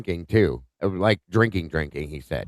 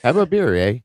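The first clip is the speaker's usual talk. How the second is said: Bob and Doug McKenzie. Retold or imitated. Host quoting a Canadian comedy duo, lightly imitated hoser voice. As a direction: do a playful Canadian "eh" catchphrase. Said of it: "what about Bob and Doug McKenzie".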